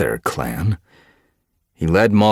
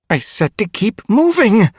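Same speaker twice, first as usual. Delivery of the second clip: angry shout; 10 dB louder than usual. Acted. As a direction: snap at a squirming kit. Unseen cat scolds a kit.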